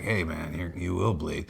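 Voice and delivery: Batman. Retold or imitated. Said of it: "Batman whispers to himself".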